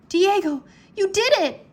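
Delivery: high, loud joyful cry; happily. A narrator's reading. Drake cheering as Diego appears, a high loud joyful cry. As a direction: greet the friend with relief and joy. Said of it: "Drake said happily".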